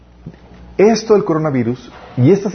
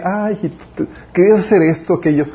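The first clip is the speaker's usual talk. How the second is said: mock tender God; 4 semitones higher than usual. God voiced mocking human plans.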